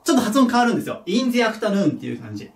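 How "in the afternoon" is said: "in the afternoon" with "the" pronounced "ji" before the vowel. Shown as a demonstration. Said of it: "ジって発音します".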